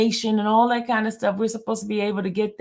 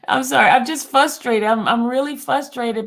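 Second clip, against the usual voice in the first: higher and louder, exasperated apology; real frustration; 4 semitones higher, 4 dB louder than usual. Real, not acted. Apologizing to Dre, bursting out, really frustrated. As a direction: let the frustration burst out as she says sorry.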